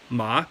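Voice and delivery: "ma" sliding up in pitch; rising second-tone "ma". Shown as a demonstration. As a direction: lift "ma" like a question. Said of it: "that sounds pretty similar to".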